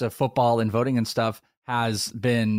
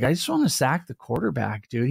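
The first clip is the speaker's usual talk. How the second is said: stoner voice; 2 semitones higher than usual. Retold or imitated. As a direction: imitate a stoned football player. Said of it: "He just sounds like a stoner".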